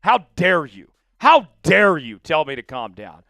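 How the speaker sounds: hammed-up affront at being told off; offended, leaning hard on key words; mock outrage. Indignant reply to being told calm down.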